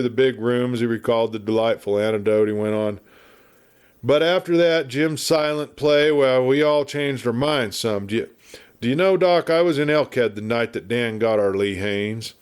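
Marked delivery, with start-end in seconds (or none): 4.0-12.3 talkative frontier lawman, raised a bit in pitch; a chatty old westerner spinning yarns; garrulous old marshal. Acted. Garrulous marshal rambling at the doctor, lightly voiced.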